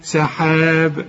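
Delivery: سحاب slowly with a light seen. Shown as a demonstration. Teacher demonstrating the thin seen. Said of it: "شوف، سا".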